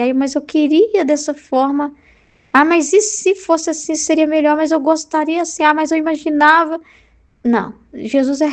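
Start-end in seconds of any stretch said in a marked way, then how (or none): 0.0-6.8 mock wishful whine. Imitating a churchgoer pining for how things should be, mock wishful. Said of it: "o demônio é o que você gostaria".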